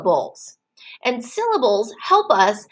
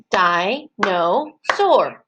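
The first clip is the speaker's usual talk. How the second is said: "Dinosaur" very slowly, one beat per syllable; teacher chanting "Dinosaur" syllable by syllable; clapped-out syllables; 3 semitones lower, much slower than usual. Shown as a demonstration. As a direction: split "Dinosaur" into three spaced chunks. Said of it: "that's how we're gonna clap syllables".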